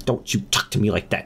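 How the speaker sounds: hammed-up maternal rebuke; outraged mom. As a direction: tell off a mouthy son in a put-on voice. Voiced mom rebukes son before frothing.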